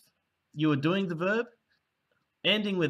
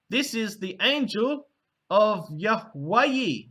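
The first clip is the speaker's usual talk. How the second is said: proclaiming; 5 semitones higher, slower than usual. Shown as a demonstration. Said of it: "And then they'd say".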